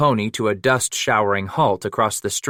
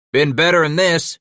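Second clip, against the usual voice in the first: loud, higher gruff bark; 7 semitones higher, 5 dB louder than usual. Acted. Bass fighting to get free, gruff bark. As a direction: spit it out with a struggling snarl. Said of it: "Scratch barked".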